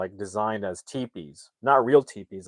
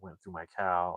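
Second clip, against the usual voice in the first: whisper; 4 semitones lower, 11 dB quieter than usual. Retold or imitated. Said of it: "he's like".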